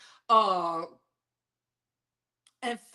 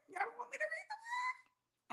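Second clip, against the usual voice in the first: hammed-up whiny wail, higher; mock cry; 18 dB quieter, much faster than usual. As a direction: fake sob at the chat. Mock distress at chat.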